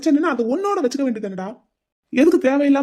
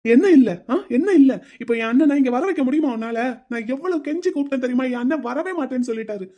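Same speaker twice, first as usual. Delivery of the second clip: angry retort. Acted. Groom rages about sister Vini.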